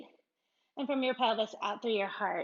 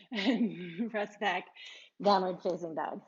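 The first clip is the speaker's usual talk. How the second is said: giggly, barely holding it together; cracking up mid-cue; giggling. Real, not acted. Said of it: "I'm cracking myself up".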